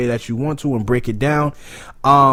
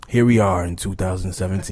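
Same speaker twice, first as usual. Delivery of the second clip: low, dramatic trailer narrator; movie trailer voice; 6 semitones lower than usual. Shown as a demonstration. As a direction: announce it like a film trailer. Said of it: "It sounds like a movie trailer".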